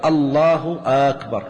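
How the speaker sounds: slow "Allahu aakbar", long vowel opening أكبر; lengthened second hamza. Shown as a demonstration. Teacher showing a takbir turned question, أكبر begun long. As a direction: stretch the start of أكبر into آ. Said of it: "صار المعنى".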